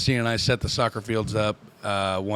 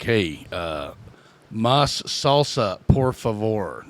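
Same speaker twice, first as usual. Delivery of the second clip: put-on Spanglish accent; 3 semitones lower, much slower than usual. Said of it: "saying English words with a Spanglish accent".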